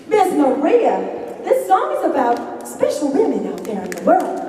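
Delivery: lightly put-on Southern accent; stagey Southern host. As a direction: introduce the song in a Southern voice. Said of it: "don't be offended if you are really Southern".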